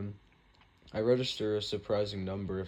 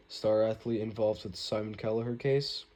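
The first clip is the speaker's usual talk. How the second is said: newscaster voice; 2 semitones higher, 4 dB louder than usual. Acted. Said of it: "in her newscaster voice".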